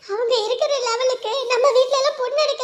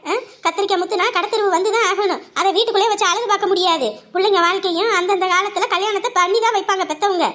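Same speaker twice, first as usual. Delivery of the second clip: coaxing elder; 4 semitones lower than usual. Acted. Elder coaxing the girl to accept marriage, low and soothing. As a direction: gently lecture the girl with proverbs.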